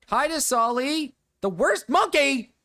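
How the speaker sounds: high, slow sing-song hello; mock cheerful high greeting; silly high greeting. Greeting chat member in silly voice.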